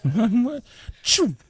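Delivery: high laughing what. Real, not acted. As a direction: laugh through it. Host echoes joke, laughing.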